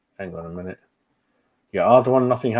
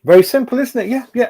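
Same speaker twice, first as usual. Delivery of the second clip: sarcastic; 12 semitones higher, 5 dB louder, faster than usual. Real, not acted. Mocking a football decision.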